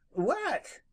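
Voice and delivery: very high sharp what; sharp demand. Acted. Rabbit demanding that Jimmy explain, high. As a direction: jump on the word. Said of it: "demanded Peter".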